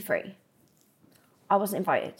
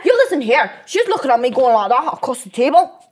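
mock Scottish accent; 4 dB louder than usual.

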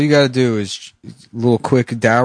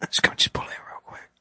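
urgent hushed whisper; whisper, pressing the driver; 10 dB quieter than usual. Acted. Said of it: "Why are you whispering?".

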